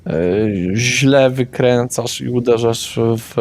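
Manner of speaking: normal talking voice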